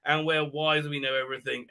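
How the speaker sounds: mock the elves' self-praise; mock smug elves. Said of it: "It's just like".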